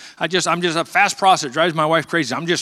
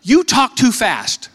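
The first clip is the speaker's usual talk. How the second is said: radio voice imitation; 8 semitones higher, 4 dB louder than usual. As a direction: mimic the old radio man telling him off. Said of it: "He said".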